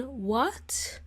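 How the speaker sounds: quiet rising blunt What?; "What?" tossed off curtly with a rise. Shown as a demonstration. Rude reply to someone who asked a question. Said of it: "You can't say that to that person".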